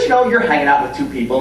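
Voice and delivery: ordinary talk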